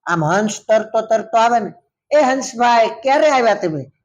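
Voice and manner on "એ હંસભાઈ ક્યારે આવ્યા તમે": chatty turtle. Acted. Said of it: "એવું પૂછ્યા જ રાખે".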